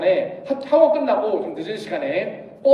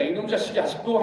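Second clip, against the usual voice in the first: softer, grumbled aside in mom's role; muttering mother; 5 dB quieter than usual. Acted. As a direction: mutter under your breath about the kid. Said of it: "이렇게 속삭입니다".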